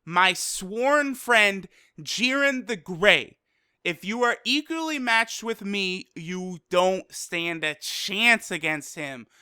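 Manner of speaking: slow, weighty retold declaration; lightly dramatized warning, deliberate pacing; solemn warning. Toppo warning Goku about Jiren, slow mock-solemn declaration. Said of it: "He says".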